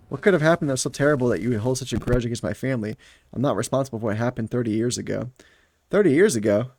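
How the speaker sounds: dramatised story dialogue, lightly acted; audiobook-style dialogue; story read-aloud. A narrator's reading. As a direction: read the heroine's protest with mild indignation.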